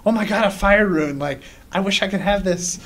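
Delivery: mildly gushing over a find; retold excitement. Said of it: "I just got excited".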